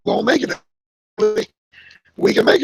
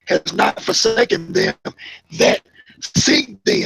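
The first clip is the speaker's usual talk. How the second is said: preaching; 3 dB louder, slower than usual. Acted. Preacher rereads verse emphatically.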